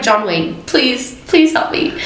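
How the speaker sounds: imitating a tearful plea, rising and breathy at the end; mock-sob a desperate please; retold crying plea. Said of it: "I, I'm crying".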